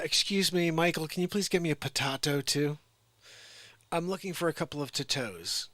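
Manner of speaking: a hammed-up customer piling tomato and potato onto a pizza order; demanding customer. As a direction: bark the order at the waiter.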